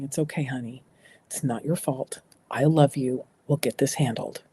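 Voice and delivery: soft, level, soothing words; neutral tone. Shown as a demonstration. Parent rehearsing in the mirror: soft neutral reassurance. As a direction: keep it calm and steady, no alarm. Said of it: "Just practice neutral tone".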